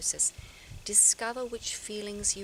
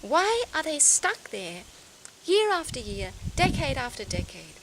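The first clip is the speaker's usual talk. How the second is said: louder, higher, slowed outburst of frustration; loud exasperated rant, pitch jumping up; exasperated anger; 4 semitones higher, 6 dB louder than usual. Real, not acted. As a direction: vent it: why can't they move on. Venting anger at stuck people.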